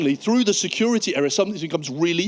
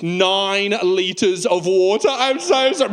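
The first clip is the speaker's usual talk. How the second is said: mortified confession; slower than usual. Acted. Acted mortified traveller confessing to officer.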